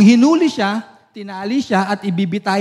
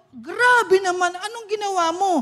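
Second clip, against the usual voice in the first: amazed disbelief; 11 semitones higher than usual. Acted. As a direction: gasp it out in wonder, stretching each word. Pastor shocked at Bible sales. (gulat na gulat, mabagal at mataas)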